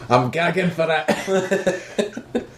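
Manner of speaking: slow, high sleazy laughing voice; sleazy leer. Retold or imitated. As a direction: drawl it like a lecherous cad. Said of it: "he's like".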